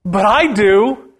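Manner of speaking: Jesus rebuking. Retold or imitated. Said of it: "He said to the Pharisees".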